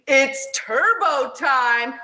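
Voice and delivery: slow, hint of a toy catchphrase; toy voice line. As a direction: say it like a talking toy. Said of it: "voice activator that says".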